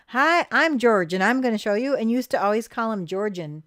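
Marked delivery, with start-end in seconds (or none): 0.1-2.0 put-on town drunk. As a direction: slur it like a drunk. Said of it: "he kinda slurred his speech".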